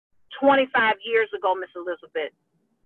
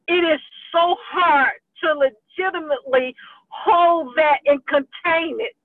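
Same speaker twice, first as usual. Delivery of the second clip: real tears held back; 2 semitones higher than usual. Real, not acted. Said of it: "I'm trying to keep it together".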